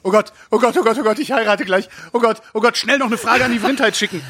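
high-pitched mock panic; excited speaker. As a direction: play a flustered groom rattling off in comic panic. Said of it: "fragt ein aufgeregter Christoph".

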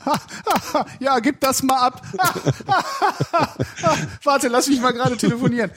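high, cackling mock laugh through words; mocking laughter. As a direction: laugh at the work while talking. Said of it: "und dann sagst du".

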